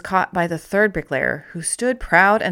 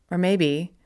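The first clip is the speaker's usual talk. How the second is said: whispered. Real, not acted. Whispered aside.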